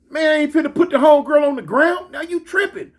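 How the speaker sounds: retold heated objection; acted indignant refusal. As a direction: imitate a homegirl refusing outright. Homegirl's acted refusal in quarrel.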